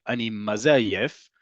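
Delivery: slow sing-song lilt on "Ani maze ayef"; sing-song, slightly questioning. Shown as a demonstration. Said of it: "You hear a little bit of a sing-song in there".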